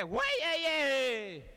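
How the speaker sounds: high, loud challenging yell; high loud war cry. Retold or imitated. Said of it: "El grito fue".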